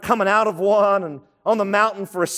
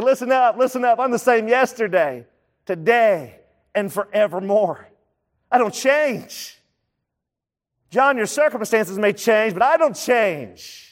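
lifted, urgent call for attention; rally the listeners to hear; Jesus calling out, raised; 2 semitones higher than usual. Retold or imitated. Jesus calls out to a struggling believer, raised and urgent. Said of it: "he's like".

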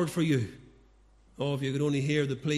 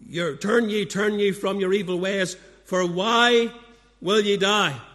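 pleading cry; 3 semitones higher, 6 dB louder than usual. Acted. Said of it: "as the Lord appeals".

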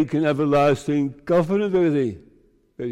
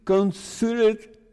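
polite pleading; 5 semitones higher than usual. Shown as a demonstration. Preacher showing the congregation how to plead politely, polite pleading. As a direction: plead courteously, pitch lifted. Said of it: "in a polite way, pleading".

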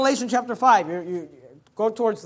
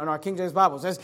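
ordinary talk

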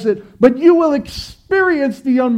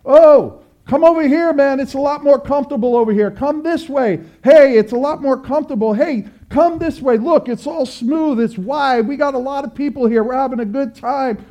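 higher, breezy come-on voice; mock tempting crowd; 4 semitones higher than usual. Lightly voiced broad-road crowd beckoning believers, mock enticing. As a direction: lure them along like a carefree crowd. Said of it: "what the people on the Broadway are saying".

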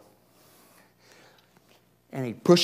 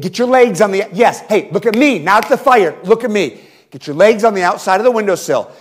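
loud, raised pleading call up to his son; urgent pleading; 4 semitones higher, 4 dB louder than usual. Retold or imitated. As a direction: coax a scared kid to jump, urgently. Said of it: "I'm pleading with Asher".

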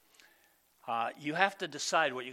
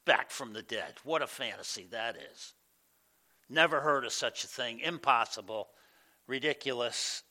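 mocking scoffer; 2 semitones lower than usual. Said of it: "Some said".

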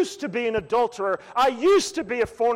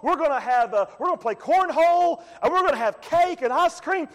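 higher, hammed-up party promoter pitch; boastful king; 5 semitones higher than usual. Nebuchadnezzar selling his statue party to the people, hammed-up. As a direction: sell the party like a cheerful huckster. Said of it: "the world said".

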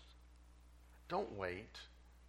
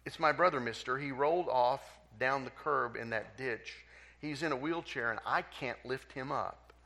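put-on crying boy; 3 semitones higher, 4 dB louder than usual. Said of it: "Tears were this time dripping".

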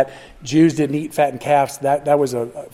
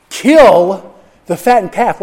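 father's command; 4 semitones higher, 6 dB louder, slower than usual. Acted. Father's command, repeated quote.

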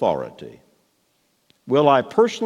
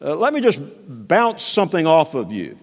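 tentative suggestion; 4 semitones higher than usual. Retold or imitated. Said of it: "he's not saying".

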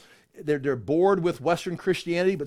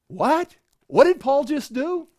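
higher, louder, caught off guard; startled disbelief; 7 semitones higher, 5 dB louder than usual. Acted. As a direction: react as if you can't believe it. Listeners startled by Paul's action.

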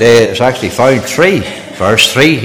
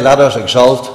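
quiet reverence; 3 semitones lower, 6 dB quieter than usual. Shown as a demonstration. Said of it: "He said".

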